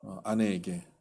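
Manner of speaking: retold low, subdued confession; understated hopeless resolve; resolute despair. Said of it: "너무 단호한 거예요".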